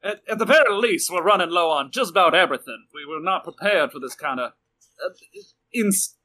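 put-on a drifting accent sliding toward Russian; the captain's accent slipping into Russian mid-speech; a faint Russian accent. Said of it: "Going back to Russian".

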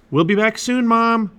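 high, loud call to another room. A narrator's reading. Jack calls to his mom in the living room, loudly. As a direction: holler a cheerful goodbye to a parent. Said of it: "Jack called into the living room".

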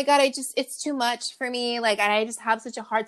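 breathy high put-on shyness; mock shy voice. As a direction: play coy and helpless. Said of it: "loves to play shy".

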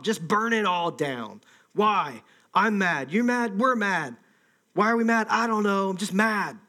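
riled-up back and forth of rioters; mock mob anger. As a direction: play a crowd mad without knowing why. Acts out the mindless angry mob.

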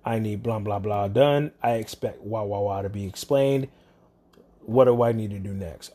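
a calm man explaining his problem plainly; calm, reasonable caller. Retold or imitated. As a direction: model how a calm caller sounds. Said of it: "He could have just calmly said".

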